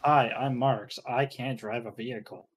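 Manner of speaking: flat monotone read, no inflection. Retold or imitated. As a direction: drone it in a dull monotone. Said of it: "In that monotone voice".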